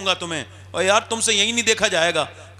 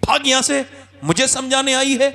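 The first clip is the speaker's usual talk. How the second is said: angry dismissal; 6 semitones higher than usual. Retold or imitated. Chaudhry kicks daughter and yells.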